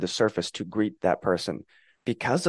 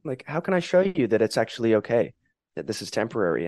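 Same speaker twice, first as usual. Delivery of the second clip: soothing an angry guest; 3 semitones higher, faster than usual. Retold or imitated. Speaking kindly to an angry inner guest, soothing. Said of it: "You're like".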